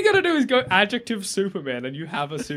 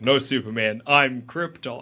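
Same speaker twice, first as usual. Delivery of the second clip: lower, dramatic villain reveal; comic villain; 8 semitones lower, slower than usual. Retold or imitated. Krypton revealing itself to Superman in a comic panel, low and dramatic. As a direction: announce it like a comic-book villain. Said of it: "that panel where it's like".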